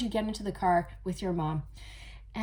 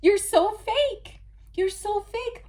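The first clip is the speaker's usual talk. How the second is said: louder, higher, slow accusation; accusing; 12 semitones higher, 6 dB louder, slower than usual. Pretend. The child calling out the mother, loud and high. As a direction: spell out how fake she is.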